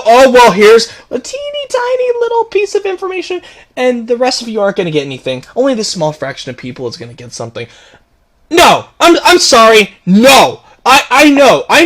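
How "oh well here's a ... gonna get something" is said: sneering mock announcement. Ranting vlogger mocks the studio's tiny info drop, sneering. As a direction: parody a cheerful corporate teaser that fizzles out. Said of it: "And then they go".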